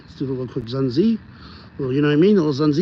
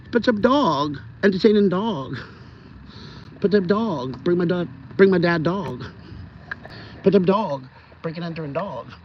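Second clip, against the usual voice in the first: lightly voiced dog catchphrases; imagined dog voice; 4 dB quieter than usual. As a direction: chant for the pet, mildly put-on. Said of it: "So it's like I'm talking for him".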